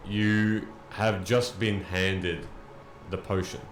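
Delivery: slow, measured narration with long pauses; deliberate, suspenseful storytelling; game master's scene setting. Acted. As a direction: draw out the suspense phrase by phrase.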